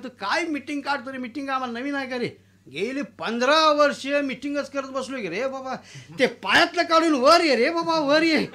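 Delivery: put-on grumbling old landlord. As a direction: scold the peon like a bossy landlord. Anna voiced, grumbling then louder.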